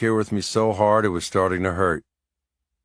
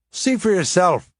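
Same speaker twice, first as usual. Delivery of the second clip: Seamus voice; 10 semitones higher, 3 dB louder than usual. A narrator's reading.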